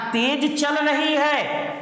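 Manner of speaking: slow test reading. Shown as a demonstration. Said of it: "एक बार ऐसे पढ़ना और एक बार ऐसे पढ़ना".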